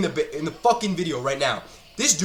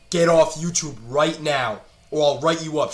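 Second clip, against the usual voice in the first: mock strict teacher. Mimicking the bossy teacher.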